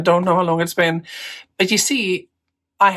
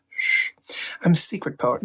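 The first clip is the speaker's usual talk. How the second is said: mock secret hush; 2 semitones lower, 6 dB quieter than usual. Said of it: "I'm kind of a secret poet".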